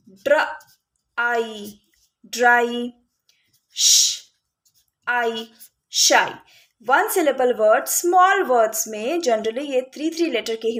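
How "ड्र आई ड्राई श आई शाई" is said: ड्र, आई, ड्राई and श, आई, शाई with pauses between parts; sounding out. Shown as a demonstration. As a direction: isolate ड्र or श, add आई, then blend ड्राई, शाई. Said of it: "one syllable words जैसे कि".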